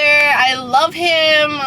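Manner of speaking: drawn-out, emotional confession of love; swooning. Real, not acted. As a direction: melt over the character, slowly. Swooning over a book character.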